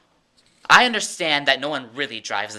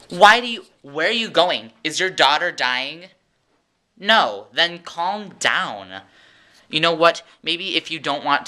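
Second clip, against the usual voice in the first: exasperated rant; 3 semitones higher than usual. Pretend. Ranting at the tailgating driver.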